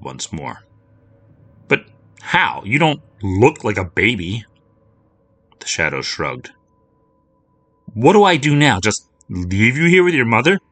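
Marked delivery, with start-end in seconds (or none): 1.7-10.6 put-on girlish higher voice, anxious and pleading; a worried girl begging her shadow for answers; young girl, higher and louder, upset; young Lucy.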